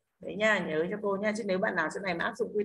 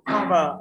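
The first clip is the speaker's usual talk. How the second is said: "Cover" with CO hit louder; stress on first syllable; 6 dB louder than usual. Shown as a demonstration. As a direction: punch CO in "Cover", let VER fall. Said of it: "Rơi chữ co". (nhấn âm tiết đầu "Cover")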